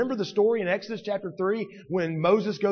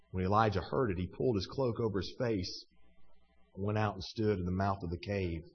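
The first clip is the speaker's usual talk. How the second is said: low, soft, solemn scripture reading; hushed reading; 8 semitones lower, 7 dB quieter than usual. A narrator's reading. Preacher reading God's question to Elijah, hushed. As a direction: drop to a hushed, reverent low voice.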